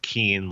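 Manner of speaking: keen, long ee after a K; first syllable of Quinones as keen. Shown as a demonstration. Pete teaches his name, saying keen. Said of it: "the first syllable is pronounced keen".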